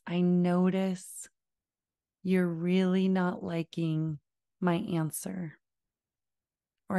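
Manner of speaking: slow, low, calm validating voice. Shown as a demonstration. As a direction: speak slowly and soothingly to a frustrated child. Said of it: "all that I'm doing is talking slowly with a low and slow tone".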